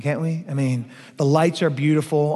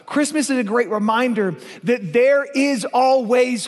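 preaching shout; 4 semitones higher than usual. Acted. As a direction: proclaim it to the back row.

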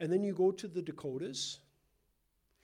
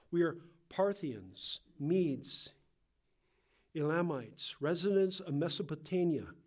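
measured, emphatic Bible reading; deliberate public reading of a list; scripture reading; 4 dB louder than usual. Acted. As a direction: read the verse out to the congregation. Reads scripture aloud.

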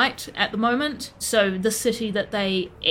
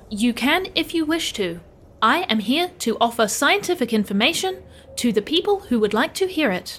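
measured, precise robot delivery; helpful machine offering its services; formal scientist robot. Acted.

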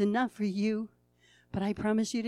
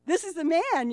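awed excitement; 7 semitones higher, 8 dB louder than usual. Acted. Boy shaking before Jesus.

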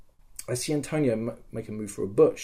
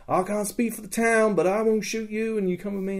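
high, raised bargaining voice; retold negotiating; 8 semitones higher than usual. Player promises enemy safe passage, high negotiating voice. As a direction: offer terms without a threat.

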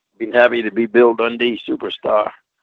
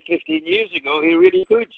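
emphatic. Real, not acted. Emphatic praise.

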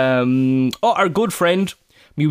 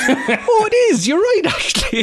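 amused guard. Retold or imitated. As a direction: play the guard, caught out and amused. Guard voiced, laughing.

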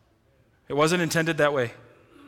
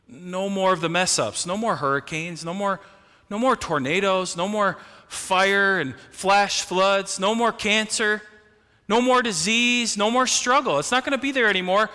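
each "no more" climbs higher, ending far higher; building fervour; 3 semitones higher than usual. Real, not acted. Preacher promising heaven to the church, rising to a fervent climax. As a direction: build the list to a rousing peak.

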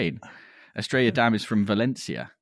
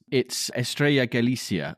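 Spanish accent; 4 semitones higher, slower than usual. Real, not acted. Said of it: "You can't say it with a Spanish accent".

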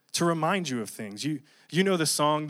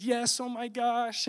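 excited yes; 9 semitones higher, 3 dB quieter, slower than usual. Retold or imitated.

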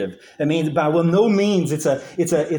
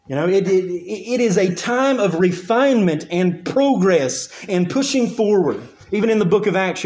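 higher-pitched, driving sermon delivery; emphatic preaching; 5 semitones higher than usual. Acted. Preacher urging the congregation that persecution is not defeat, emphatic preaching. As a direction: preach it insistently, stressing key words.

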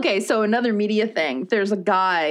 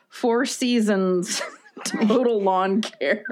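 laughing through it; much slower than usual. Real, not acted. Baffled by company name.

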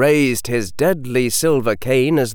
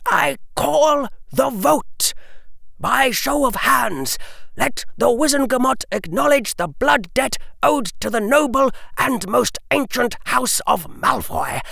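raised voice; 12 semitones higher than usual. A narrator's reading. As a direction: call the vote before the assembly. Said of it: "raised his voice again".

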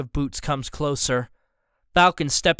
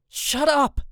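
shouted shut up; 12 semitones higher than usual. A narrator's reading. Boy waves his arms and shouts at his family. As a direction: tell them off sharply. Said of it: "wave my arms and say".

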